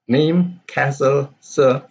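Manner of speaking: "Name", "castle", "sir" each set apart and stressed; stressed words. Shown as a demonstration. Teacher picking out the question's stressed words. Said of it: "So these are the stress".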